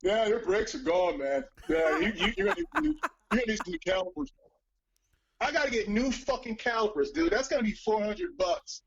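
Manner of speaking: lightly voiced Tovar breaking bad news, rushing the calipers bit; a mechanic friend delivering a pricey diagnosis; Tovar impression. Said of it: "do another one".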